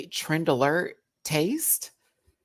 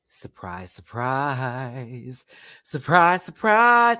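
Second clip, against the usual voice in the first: building surprise; 5 dB louder, much slower than usual. Real, not acted. Repeated building exclamation.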